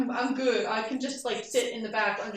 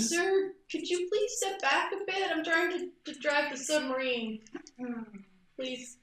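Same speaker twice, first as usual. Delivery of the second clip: higher, timid pilot asking politely; nervous plea; 3 semitones higher than usual. Acted. Pilot nervously asks the officer to step back, timid and higher.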